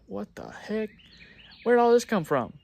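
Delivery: high, loud disbelieving outburst; incredulous what the heck. Retold or imitated. Contractor reacting in shock to the angry customer's text, high and loud. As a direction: blurt it out in stunned disbelief.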